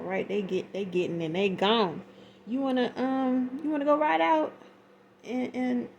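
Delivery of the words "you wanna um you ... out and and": voicing a suitor.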